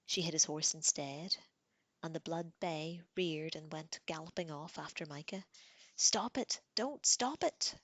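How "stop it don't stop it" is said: high, loud scream, slowing at the end. A narrator's reading. Girl screaming at the fighting pair, loud scream. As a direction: scream it, dragging out the last words. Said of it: "Sansa screamed".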